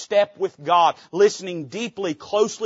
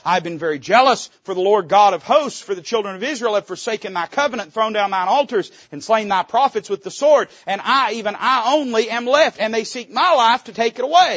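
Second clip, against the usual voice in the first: loud, raised complaining prophet; Elijah's complaint; 5 semitones higher, 7 dB louder than usual. Acted. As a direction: pour out the grievance. Preacher voicing Elijah's complaint.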